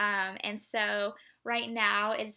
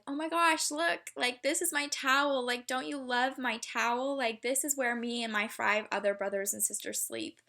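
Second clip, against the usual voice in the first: put-on excited little girl; 2 semitones higher than usual. A girl showing off her towel to a visitor, mock delighted. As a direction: gush over your towel like a proud little kid, then settle. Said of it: "showed me it and was like".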